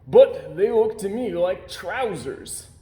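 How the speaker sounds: a sailor mildly puzzled; slow old sailor. A narrator's reading. Sailor voiced.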